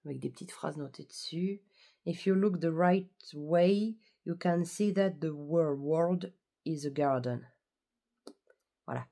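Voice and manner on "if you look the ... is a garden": slow English reading with a French accent. Shown as a demonstration. Vlogger reading a bookmark quote in French-accented English. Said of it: "mon accent anglais est pas, est pas ouf".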